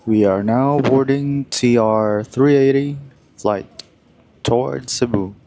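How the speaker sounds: over the intercom. Pretend. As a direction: announce it like an airline gate agent. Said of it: "I'm making shit up".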